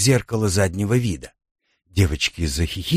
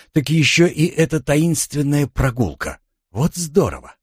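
put-on higher-pitched childlike delight; cheerful girls' chatter; 6 semitones higher than usual. A narrator's reading. Girls freed from school lessons, cheerful excitement. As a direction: voice the girls' glee at an outing. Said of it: "Девочки весело загалдели".

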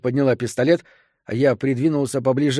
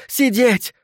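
sharply higher, sudden yell; yelled command; 10 semitones higher than usual. A narrator's reading. Armed woman to man trying to rise, yelling. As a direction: order him down with a jump in pitch. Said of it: "заорала она".

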